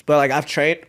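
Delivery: hiccuping mid-sentence; hiccups. Real, not acted. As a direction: talk through hiccups. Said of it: "excuse me, the hiccups".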